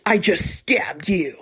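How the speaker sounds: slow, breathless whisper of a threat; cold whisper. Retold or imitated. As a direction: hiss it slowly, barely voiced. Attacker's cold reply, retold.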